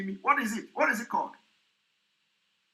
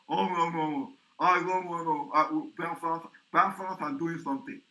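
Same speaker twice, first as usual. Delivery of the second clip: mock through-the-nose rambling, lower than usual; mocked irritating voice; 4 semitones lower than usual. Commentator mimicking a very, very irritating voice, mock nasal impression. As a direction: imitate an irritating nasal speaker's babble. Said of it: "Very, very irritating voice".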